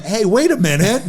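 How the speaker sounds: high, loud mock protest; playfully offended objection; hey, not so fast. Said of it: "And I'm like".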